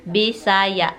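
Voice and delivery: "Bisaya" slowly as Bi-sa-ya; careful, drawn-out teaching take of "Bisaya"; slow syllables. Shown as a demonstration. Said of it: "if you say it quickly".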